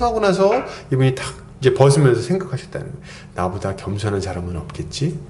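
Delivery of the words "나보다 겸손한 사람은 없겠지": smug low aside. Retold or imitated. Punchline of the pastor's pride.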